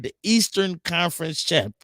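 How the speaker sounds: proud announcement with a slight catch; choked up. Real, not acted. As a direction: catch on the word champions, a real lump in the throat. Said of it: "I'm getting choked up".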